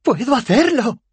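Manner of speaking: very high, manic cry; crazed shriek. A narrator's reading. Rincewind screeches that he has powers, crazed and high. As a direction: squeal it like someone gone mad. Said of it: "chilló enloquecido".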